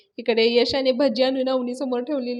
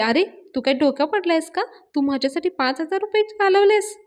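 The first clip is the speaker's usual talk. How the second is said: higher-pitched mock telling-off; irritated scolding; 5 semitones higher than usual. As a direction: act out exasperated disbelief, without shouting. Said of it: "Avni चिडते". (चिडल्याची नक्कल करत)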